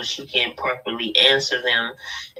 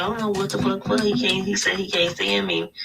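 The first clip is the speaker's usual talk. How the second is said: higher voice; 7 semitones higher than usual. Retold or imitated. Friend's quote, voiced higher.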